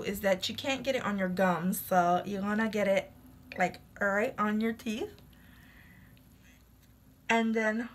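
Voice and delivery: fingers in mouth; talking through pulled lips; lips stretched by fingers. Real, not acted. Seen 0: Holds strip on teeth, fingers pulling lips wide while talking.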